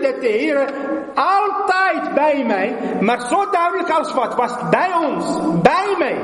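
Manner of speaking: soar with awe at the holy presence; ecstatic testimony. Acted. Preacher telling how the Lord filled his room, rapturous high voice.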